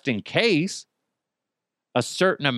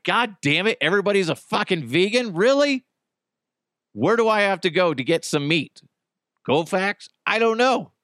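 mock fury; 5 semitones higher than usual. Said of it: "I'd be furious".

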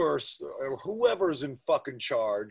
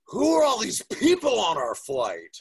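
put-on higher, louder, puzzled kid voice with a laugh; loud kid question; 8 semitones higher, 7 dB louder than usual. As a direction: blurt it out like a baffled little boy. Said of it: "he said it so loud".

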